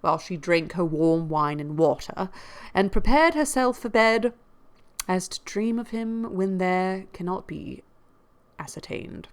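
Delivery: lively audiobook reading of a classic novel; expressive period-novel narration; story narration. A narrator's reading. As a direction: read the novel aloud with emphatic key words. Reads a novel aloud.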